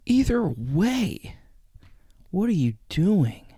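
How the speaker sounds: high, slow, strained "what are you doing"; squeaky disbelief. Real, not acted. Reacting to the creepy video, high squeaky disbelief.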